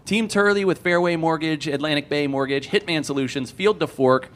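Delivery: talking with a burning mouth from hot sauce; speaking through a burning tongue; mouth on fire. Real, not acted. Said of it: "my mouth is still on fire".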